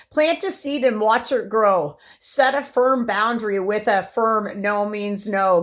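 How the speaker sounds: measured, declaimed poem reading; poem recital. Acted. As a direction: recite your own poem with firm emphasis. Reads own poem aloud.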